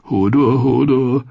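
a simple stableboy getting uneasy; touch of fear. A narrator's reading. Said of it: "In Hodors Stimme schwang Angst mit". (leicht ängstlich)

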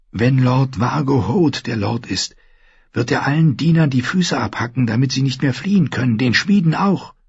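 put-on high, urgent girl's voice; high-pitched, pressing warning; insistent girl. A narrator's reading. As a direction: warn him in a high young voice.

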